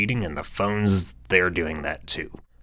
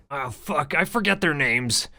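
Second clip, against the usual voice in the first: panicky boss voice; 4 semitones higher than usual. Acted. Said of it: "Bonham shrinks further into panic".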